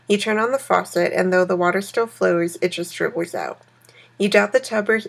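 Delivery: steady read-aloud narration voice; story narration. A narrator's reading. Reading game story text.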